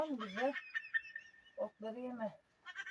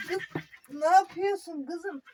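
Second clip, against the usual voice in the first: exasperated call; 5 semitones higher, 8 dB louder than usual. Real, not acted. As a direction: call out sharply to stop her. Scolding a restless cow.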